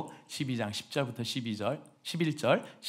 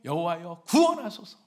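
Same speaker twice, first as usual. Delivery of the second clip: shouted prayer; 3 semitones higher, 4 dB louder than usual. Shown as a demonstration. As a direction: call out to God for rescue. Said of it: "뭐라고 외치라고 합니까?".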